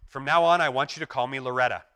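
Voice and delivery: a hint of a comic sketch character; lightly voiced Stan. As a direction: announce it proudly, lightly acted. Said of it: "He goes".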